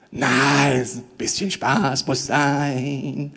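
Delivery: low mock voice. Mock worldly objection.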